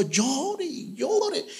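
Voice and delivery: slow, high, drawn-out mock sobbing; a touch of acted crying, slow and high; retold weeping. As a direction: stretch each llore like remembered tears. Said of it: "Me la pasé llorando".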